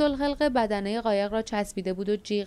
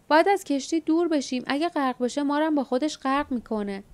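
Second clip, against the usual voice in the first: shouting in the rain; 5 semitones higher than usual. Acted. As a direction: yell over the rain to get them away. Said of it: "در میان باران فریاد زد".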